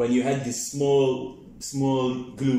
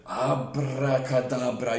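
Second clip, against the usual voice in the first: slow magic incantation; 2 semitones lower, slower than usual. Acted. Magic trick spell.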